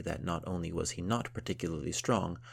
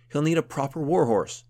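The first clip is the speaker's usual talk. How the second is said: gruff count voice; 9 semitones higher, 9 dB louder than usual. Acted.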